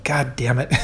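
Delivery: low, soft defeated curse; retold dismay. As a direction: curse under your breath, half amused. Friend's dismay at lost money, retold.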